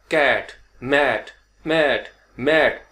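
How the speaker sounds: कैट and मैट said slowly with a wide open a; open short a drill. Shown as a demonstration. Teacher drilling the short a for students. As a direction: stretch the a sound slowly. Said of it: "होता है ए".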